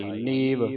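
ਨੀਵ as "neev", vowel not nasalised; plain oral long ee in ਨੀਵ; no nasalisation. Shown as a demonstration. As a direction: say ਨੀਵ without a bindi sound. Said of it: "ਬਿੰਦੀ ਲਾ ਕੇ ਨਹੀਂ ਉਚਾਰਨ ਕਰਨਾ".

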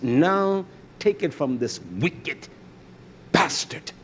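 hammed-up scolding master; a hint of a harsh king cursing his servant; preacher voicing the parable's austere king, angry; mock angry king. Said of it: "That's what he said".

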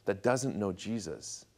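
slow, softened, earnest plea; heartfelt. Retold or imitated. Young convert confiding in his pastor, heartfelt. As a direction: draw it out quietly, weighing each phrase. Tearful confession to pastor, retold.

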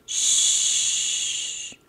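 unvoiced, soft shh; whispered shush. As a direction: hush him like in a library. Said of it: "the bookworms replied".

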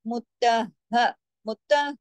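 मुत्तह with doubled h and unstretched ending; short final ha. Shown as a demonstration. Teacher warns against lengthening, मुत्तह ending short. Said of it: "लंबा नहीं खींचना".

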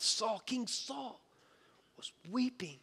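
whispered slowly, drawing listeners in. Real, not acted. Preacher to congregation about King Saul, whispered. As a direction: breathe it out as a hushed aside. Preacher hushes telling Saul's weeping.

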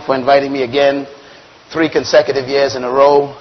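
worn-out, hoarse speaking voice. Real, not acted. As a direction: speak through a tired, hoarse voice. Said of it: "My voice is a little shot".

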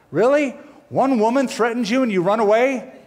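preacher amazed at fleeing prophet; incredulous. Real, not acted. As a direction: marvel at how silly it is. Incredulous about Elijah.

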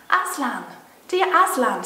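put-on pleading girl. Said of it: "said Lucy".

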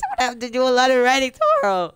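high, whiny fake-tearful wail; mock crying. Streamer to viewers about homework, mock-crying wail. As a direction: pretend to cry over it. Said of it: "I'm not crying at all".

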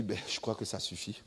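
a lazy demon smoking, pleased with its trick; quiet, smug demon muttering to itself; sly demon voice. Retold or imitated. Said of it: "Et puis, il dit".

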